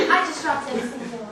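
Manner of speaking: loud, laughing through the words. Acted. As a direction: chatter nervously through laughter. Flustered visitor still laughing.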